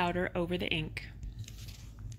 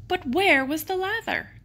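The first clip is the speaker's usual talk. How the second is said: pitched high, puzzled question on where; read-aloud gasp of puzzlement; storyteller's mock surprise; 10 semitones higher than usual. A narrator's reading. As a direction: ask it in wide-eyed bewilderment. Lather suddenly vanished.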